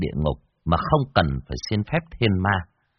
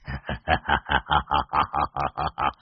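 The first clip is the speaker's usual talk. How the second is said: low creepy snicker; sly evil chuckle; 5 semitones lower, 4 dB quieter than usual. A narrator's reading. Môn Phọt advances on the ghost, evil chuckle. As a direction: chuckle like a villain. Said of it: "cười gian".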